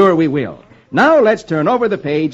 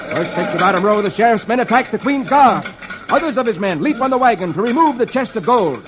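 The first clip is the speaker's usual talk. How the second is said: story narration. A narrator's reading. Reader telling of the attack on the guard, excited storytelling. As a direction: drive the fight scene along.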